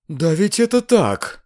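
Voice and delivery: high, vexed outburst; heated exclamation. A narrator's reading. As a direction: exclaim it with feeling. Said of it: "в сердцах воскликнула госпожа Бенсусон".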